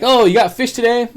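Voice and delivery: high, bright imitation of the clerk; postal clerk. Imitating the post office clerk greeting him in a high voice. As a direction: chirp it like the friendly clerk.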